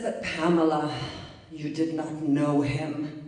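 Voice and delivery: a modest attempt at an Argentinian accent. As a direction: gently voice the Argentinian therapist, slowing down. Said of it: "I'm gonna try to do her accent".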